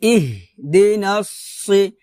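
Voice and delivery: slow, drawn-out tajweed recitation; measured chanting for students to repeat; Quran recitation demo. Shown as a demonstration. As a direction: recite slowly, holding the long vowels. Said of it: "তারপর".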